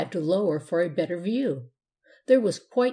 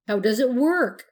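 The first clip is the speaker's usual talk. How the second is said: curious; 5 semitones higher, 5 dB louder than usual. A narrator's reading. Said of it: "asked the cowboy".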